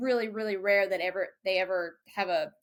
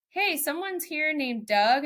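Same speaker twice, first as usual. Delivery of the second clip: calling out; 7 semitones higher, 3 dB louder, slower than usual. Retold or imitated. Calling to crew in kitchen.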